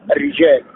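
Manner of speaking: الرجال with a doubled, thin R; light doubled ri. Shown as a demonstration. Teacher shows shadda with kasra, light doubled R in الرجال. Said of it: "التشديد بالكسر ترقيق".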